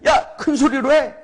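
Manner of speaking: high, jeering command; mocking taunt. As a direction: taunt the false prophets as Elijah. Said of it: "막 이렇게 막 조롱하는 겁니다".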